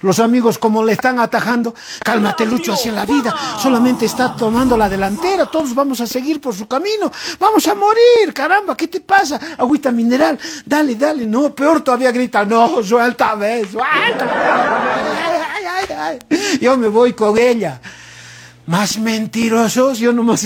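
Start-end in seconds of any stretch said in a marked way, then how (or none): 2.0-11.2 pleading friends, jumping much higher on vamos a morir. Acted. Friends calming the wailing son. 12.4-17.8 slow, dragged-out mock sobbing wail; hammed-up wailing. Son fighting to join his mother.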